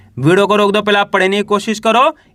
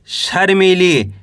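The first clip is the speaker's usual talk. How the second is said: slow reading; much slower than usual. Shown as a demonstration. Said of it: "कैसे पढ़ेंगे?".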